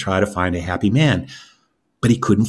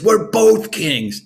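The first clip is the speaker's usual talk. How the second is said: laughing; 11 semitones higher, 4 dB louder, much slower than usual. Acted. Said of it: "he starts to laugh".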